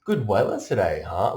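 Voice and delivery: high, loud Aussie surfer charm; brash Aussie pickup. Retold or imitated. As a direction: saunter up and chat her up, Aussie style. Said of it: "Just walk right up".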